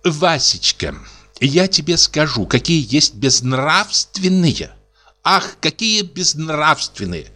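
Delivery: each word stretched slowly; slow, savoring every word; drawn out words. Acted. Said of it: "растягивая каждое слово".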